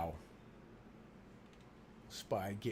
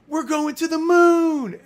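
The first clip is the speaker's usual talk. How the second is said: put-on high, slow, loud child's cry; three-year-old squealing about the moon; little daughter; 12 dB louder, slower than usual. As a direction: shout it like an excited toddler. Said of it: "and she goes".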